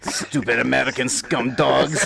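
mock French accent. Player voicing the French opponent's insult, mock French accent. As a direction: imitate a scornful Frenchman in a hammed-up French accent. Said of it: "That's what he's saying right now".

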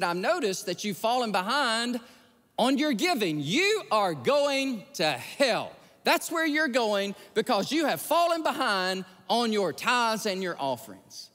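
retold angry rebuke, emphatic; mad pastor. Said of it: "he's mad, and he's angry".

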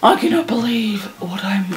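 hushed unvoiced whisper; awed whisper. Real, not acted. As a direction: breathe it out in disbelief.

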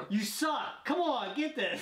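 frog puppet impersonation; Kermit the Frog. Pretend. Player urging his friend to guess, frog puppet voice. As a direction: plead in a froggy puppet voice. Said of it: "Kermit the Frog".

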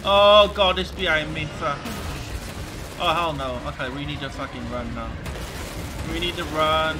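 real panic, high and loud; frantic shrieking while fleeing; being chased. Real, not acted. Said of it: "I'm panicking right now".

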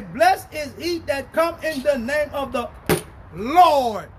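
preacher declaiming with punched key words; emphatic pulpit proclamation; forceful scripture reading. Real, not acted. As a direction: proclaim the verse with building weight. Reads scripture aloud at force.

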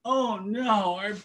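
rising, wailing "Oh no"; mock lament. The people mourning the lost songs, hammed-up wail. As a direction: wail it like a crowd in grief. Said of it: "Everybody was saying".

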